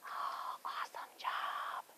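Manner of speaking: whisper. Real, not acted. Praising kids in quiet pose.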